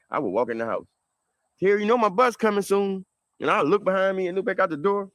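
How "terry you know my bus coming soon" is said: put-on higher, louder voice of old grandma; grandma voice hinting at her passing; grandma's voice. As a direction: lightly play his grandma warning him. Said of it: "My grandma always used to tell me".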